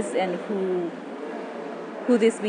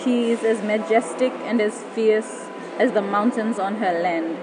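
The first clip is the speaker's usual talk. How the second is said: poem recitation. Acted. Spoken word poem over music.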